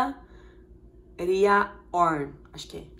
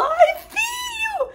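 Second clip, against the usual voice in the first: high, loud shriek to her son; squealing, drawn-out motherly shout; excited mom scream; 5 dB louder, much slower than usual. Retold or imitated. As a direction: call out wildly over-proud. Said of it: "que louca que tá gritando".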